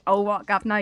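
hammed-up bad Cockney accent; mock Cockney from an old film musical; Dick Van Dyke. Host mocking an actor's film accent, fake Cockney. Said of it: "Dick Van Dyke's like".

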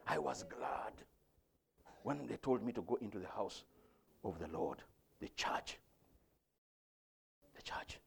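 very low, near-whispered psalm; reverent, barely voiced preaching; hushed reflection. Real, not acted. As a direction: let each phrase fall softly into silence.

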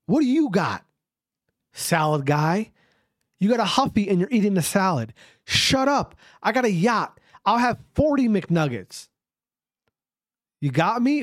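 mock-indignant rant. Yacht owner berating salad guy on a Huffy, mock-indignant rant. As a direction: put the imaginary critic in his place.

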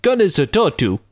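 very high exclamation of recognition; high, excited accented greeting; delighted hawker. Retold or imitated. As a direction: mimic a seller thrilled to hear the country. Imitates hawker delighted at hearing Ireland.

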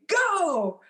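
high, drawn-out mock call; imitated command. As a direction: imitate an instructor calling the jump. Retold instructor's command to jump.

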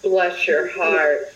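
Southern drawl. Shown as a demonstration. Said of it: "it's the".

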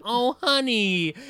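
high, slow, drawn-out sympathy; pitying. Retold or imitated. Ex hearing his thought process, pitying. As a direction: stretch it out with retold pity.

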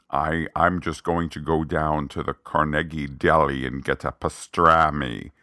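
put-on labored, imperfect New York accent; mock an actor straining at an American accent; imitated American accent. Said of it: "his American accent is not flawless".

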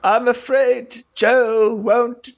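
computer voice. Acted. Computer voice in game.

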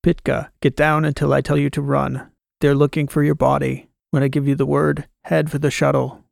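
flat robotic command voice. Acted. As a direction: speak like a machine giving orders. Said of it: "said in its robotic voice".

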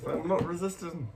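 mocking the cop who pushes Douglas into the car, hammed up; overacting cop. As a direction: overplay it like a wrestler selling a move. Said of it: "He's, like, overacting".

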